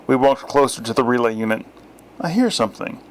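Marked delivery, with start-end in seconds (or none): 2.2-3.0 dramatic. A narrator's reading. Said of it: "I cocked my ear dramatically".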